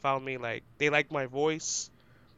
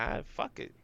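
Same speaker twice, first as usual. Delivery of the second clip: whispered; 5 semitones higher, 10 dB quieter, faster than usual. Retold or imitated. Inner reaction to pressure.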